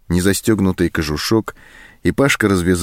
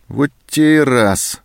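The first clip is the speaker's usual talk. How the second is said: irritated grumble; 7 semitones higher, slower than usual. A narrator's reading. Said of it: "зло обернулся сержант".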